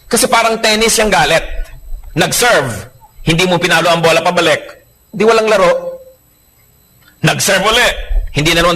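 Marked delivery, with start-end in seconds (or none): none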